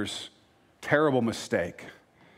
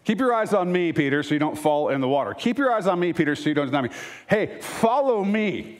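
a raised, pleading call to keep looking at him; a lightly voiced Jesus, urging and higher; 5 semitones higher than usual. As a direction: call Peter back, high and earnest.

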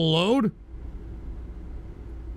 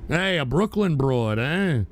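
Brooklyn wise guy; 2 semitones lower than usual. Acted. Streamer catcalling a Brooklyn woman, lightly voiced sleazy wise guy.

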